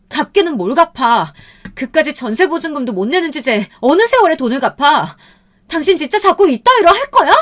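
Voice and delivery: high-pitched angry scolding, building to a shout; furious wife. A narrator's reading. Wife rejecting husband's promise of repayment, furious. Wife keeps fighting, won't calm down.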